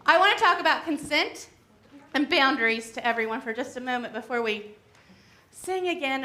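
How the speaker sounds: winded after singing; out of breath, catching air. Real, not acted. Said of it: "as I'm out of breath".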